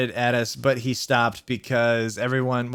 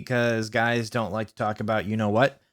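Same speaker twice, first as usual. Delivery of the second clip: uncomfortable; 3 semitones lower than usual. Acted. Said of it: "he gadgeted uncomfortably".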